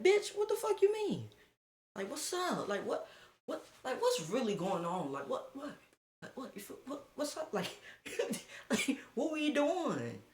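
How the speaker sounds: high, squeaky half-laughing outrage; hammed-up indignation, half giggling; mock outraged rant. Him ranting at the girl who denied it, high and mock-outraged.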